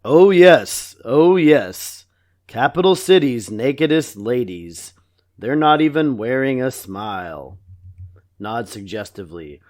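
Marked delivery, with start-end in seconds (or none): 0.0-7.6 talking doll. Retold or imitated. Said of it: "doll principal voice".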